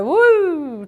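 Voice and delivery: mock reeling whoop; overwhelmed "woo". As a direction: swoop up on a long woo. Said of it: "you basically go".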